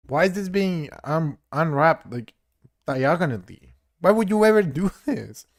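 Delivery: high, loud, baffled outcry at a broken tool; exasperated yell. Real, not acted. Gamer yelling at a weirdly unwrapped model, loud disbelief. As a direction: shout it, can't believe what you see.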